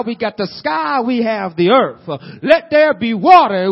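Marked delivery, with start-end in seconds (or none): 2.4-3.7 God commanding light into being; booming voice of God. Acted. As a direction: proclaim it like God creating. Preacher voicing God speaking creation.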